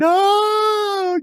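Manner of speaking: long, high hammed-up wail; theatrical crying wail. Imitating Mason's worst theatrics of crying at the morgue, hammed-up wail. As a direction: wail out a badly faked cry. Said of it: "worst theatrics of crying I've ever seen".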